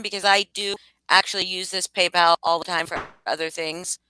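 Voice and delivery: normal talking voice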